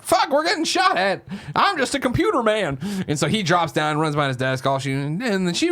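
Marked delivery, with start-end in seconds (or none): 0.0-2.8 mock panic. Miles Dyson panics under fire, high and hammed-up. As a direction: play the scared scientist. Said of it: "immediately he's like".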